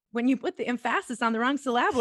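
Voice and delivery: "emphasis" and "syllable" stressed on their second syllables; wrong-syllable stress. Shown as a demonstration. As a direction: say em-PHA-sis for "emphasis", sy-LAB-le for "syllable".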